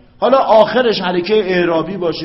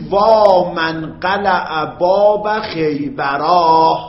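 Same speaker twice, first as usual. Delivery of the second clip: slow, stretched Arabic lament with a long وا; drawn-out lament; much slower than usual. Shown as a demonstration. Teacher demonstrating a lament to students, slow and drawn out. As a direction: stretch every syllable like a mourner's cry. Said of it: "میگی".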